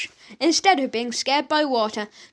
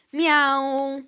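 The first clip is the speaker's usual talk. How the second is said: screaming cat; 2 semitones higher than usual. A narrator's reading. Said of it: "screamed the cats".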